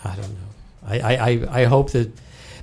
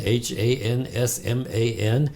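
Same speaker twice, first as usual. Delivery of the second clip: slow spelling; slower than usual. Real, not acted. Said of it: "spelling out email slowly".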